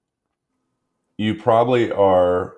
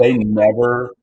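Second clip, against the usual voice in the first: laughing through the words; a real laugh breaking in; 4 semitones higher, 5 dB louder, slower than usual. Real, not acted. Laughs at the listener's joke.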